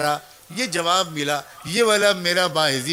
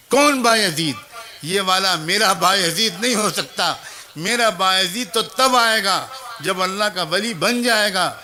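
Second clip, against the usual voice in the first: a raised, firm mother's voice from behind the door; stern mother's refusal; 3 dB louder than usual. Acted. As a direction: refuse the boy firmly, then let it drop. (ماں کا سخت انکار، بلند اور مضبوط آواز میں)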